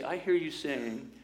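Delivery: slow, stilted counseling phrase; awkward, technique-y. Acted. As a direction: recite it slowly like a newly learned technique. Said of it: "it feels awkward at first, very, very technique-y".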